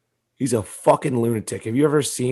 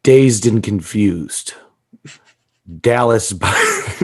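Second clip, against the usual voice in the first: quoting movie titles; much slower than usual. Retold or imitated. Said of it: "just quote his movies".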